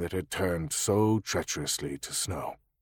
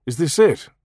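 dubious; 7 semitones higher, 6 dB louder than usual. A narrator's reading.

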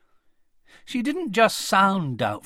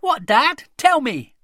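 put-on eager child; 11 semitones higher, 10 dB louder than usual. A narrator's reading. Connie begging parents for news.

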